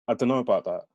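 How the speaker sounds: doubtful Birmingham reply; Brummie accent. Acted. Fraser doubting his friend's idea, in Brummie accent. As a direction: hedge it in a light Brummie lilt. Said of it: "aren't familiar with the Brahmi accent".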